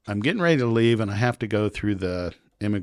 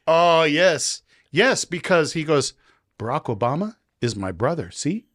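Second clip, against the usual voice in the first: much higher put-on officer voice; imitating the officer; 7 semitones higher, 5 dB louder than usual. Immigration officer teasing the American traveler, high put-on voice. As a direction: play the passport officer, pitched way up and sly. Officer claims Obama as brother.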